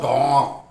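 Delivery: drawn-out mock roar, only moderately loud; imitated leopard shout. Speaker acting out the leopard at the ashram, mock shout. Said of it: "the leopard would come and shout".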